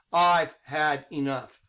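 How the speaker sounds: drawn-out, fed-up declaration; slow and deliberate. Shown as a demonstration. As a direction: say it slowly like a final warning. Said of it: "I'm gonna speak like this".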